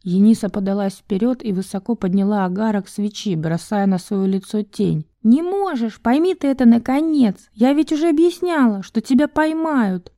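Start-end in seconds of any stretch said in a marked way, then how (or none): 5.2-10.1 forceful insistence. Acted. Enisa forcefully stopping Val from leaving. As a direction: press each word hard.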